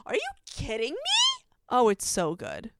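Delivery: high-pitched fan disbelief; soaring, overexcited question; incredulous gushing. Real, not acted. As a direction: squeal it in delighted disbelief. Gushing over the monologue just recited.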